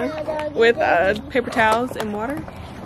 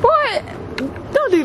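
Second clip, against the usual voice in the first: sharp scolding call; 9 semitones higher than usual. Real, not acted. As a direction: snap his name out to stop him. Mom scolds boy over lotion.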